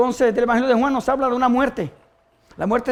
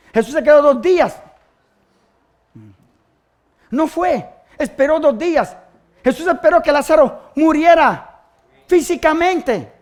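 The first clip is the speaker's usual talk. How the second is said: higher, emphatic preacher delivery; fervent preaching; 6 semitones higher, 9 dB louder than usual. Acted. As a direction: drive each phrase out to the congregation. Preaches at raised force. (predicación enfática, con voz alzada)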